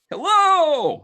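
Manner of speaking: high, loud metal-man greeting; booming robot hello. Acted. Warforged entering the shop, booming hello. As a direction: call out like a cheerful Warforged.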